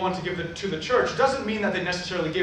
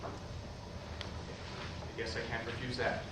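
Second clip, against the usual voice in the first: reluctant; 6 semitones lower, 14 dB quieter, much slower than usual. Acted. Roy reluctantly conceding.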